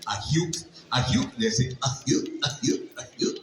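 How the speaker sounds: goofy hooting ahiu; cartoon-dog whoop; Goofy ahiu yelp. Shown as a demonstration. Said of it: "la onomatopeya de ahiu".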